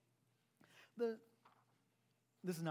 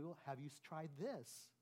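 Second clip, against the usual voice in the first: mildly softer, slow suggestion; a little more gently; 7 dB quieter, slower than usual. Shown as a demonstration. Pastor showing a gentler way to give advice, softly and slowly. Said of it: "a little more gently saying".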